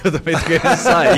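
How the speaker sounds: words through a laugh. Real, not acted. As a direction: laugh while saying it. Laugh heard on line. (falando rindo)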